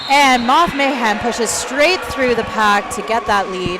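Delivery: excited shout. Real, not acted. Play-by-play, jammer breaks through.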